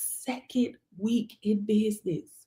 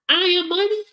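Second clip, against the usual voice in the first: higher, confident affirmation chant; affirmation demo; 6 semitones higher, faster than usual. Shown as a demonstration. Demonstrating affirmations to viewers, higher confident declaration. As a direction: declare it like a mantra. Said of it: "Are you scared to say that".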